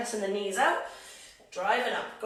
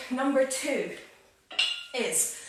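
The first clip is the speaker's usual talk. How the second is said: panting between words; breathless after squats; out of breath; slower than usual. Real, not acted. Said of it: "I'm so out of breath".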